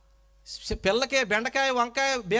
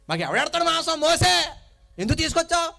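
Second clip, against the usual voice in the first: raised, whiny complaint of a crowd fed up with manna; a crowd in the desert grumbling at Moses, raised and whining; 5 semitones higher, 4 dB louder than usual. Acted. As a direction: complain like hungry people sick of the same food. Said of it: "అంటున్నారు".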